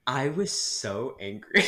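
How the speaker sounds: slow, laughing through it. Real, not acted. Telling the co-host how angry she got, laughing. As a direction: laugh while admitting anger. Laughing while recalling anger.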